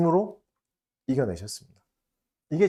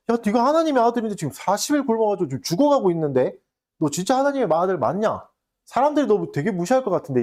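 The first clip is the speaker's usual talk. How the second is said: Satan's taunt; 4 semitones higher than usual. Retold or imitated. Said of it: "물어봐요".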